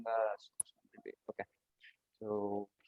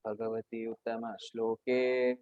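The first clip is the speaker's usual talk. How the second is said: verse recitation. Acted.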